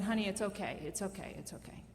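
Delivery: fading from soft to barely audible; soothing. Retold or imitated. Mother soothing a frightened child.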